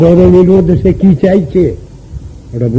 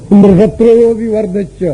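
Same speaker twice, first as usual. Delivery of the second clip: ইন্দ্রসত্র with the stress wrongly on ইন্দ্র, said higher; wrong stress demo; 6 semitones higher than usual. Shown as a demonstration. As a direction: stress ইন্দ্র in ইন্দ্রসত্র বিবর্ধচ্য to show the mistake. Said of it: "উচ্চারণ করতে গিয়ে উল্টো হয়ে যাচ্ছে".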